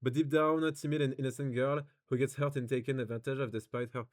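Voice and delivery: English read out in a French accent. Real, not acted. Streamer back to reading the review, lazy French-accented English. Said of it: "j'ai un peu la flemme d'essayer".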